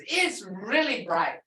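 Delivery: "really" leaned on and slowed; stress on REALLY. Shown as a demonstration. Teacher showing where the emphasis falls, stressing "really". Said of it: "Really is putting the emphasis".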